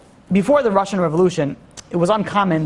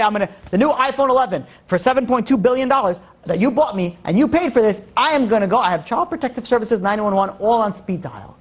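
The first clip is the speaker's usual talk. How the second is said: a hint of a bratty kid, a bit higher; mock bratty child; 4 semitones higher than usual. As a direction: tease the child's threat, lightly voiced. Child voiced threatening parents again.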